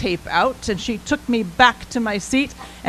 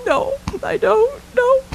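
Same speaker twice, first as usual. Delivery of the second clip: put-on higher, timid little girl reply; small child voice; 12 semitones higher than usual. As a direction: shake your head like a shy kid. Child answering Fred.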